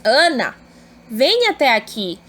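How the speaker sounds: "Ana" exclaimed, then "vem até aqui"; exclaimed vocative. Shown as a demonstration. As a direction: call out "Ana" as a textbook exclamation. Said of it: "Então, eu vou exclamar". (vocativo exclamado em "Ana")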